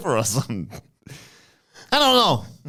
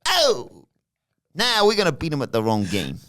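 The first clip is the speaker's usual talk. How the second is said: high opening then near-usual voice; lightly voiced Tony; Tony impression; 4 semitones higher than usual. Tony dismissing Stack's idea, lightly voiced. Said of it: "and he says".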